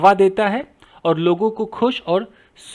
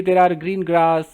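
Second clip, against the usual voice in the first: slow dictation; 2 semitones lower, much slower than usual. Shown as a demonstration. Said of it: "तो आप बोल सकते हैं".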